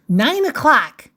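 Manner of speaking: punchy call of the hour; crisp announced clock time; time announcement. Acted. Calls out story time.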